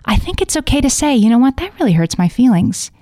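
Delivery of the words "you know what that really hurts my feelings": detached calm. Shown as a demonstration. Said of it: "you can say it like that, with that much detachment".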